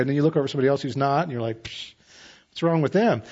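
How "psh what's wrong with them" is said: dismissive scoff. Retold or imitated. Judging a struggling believer.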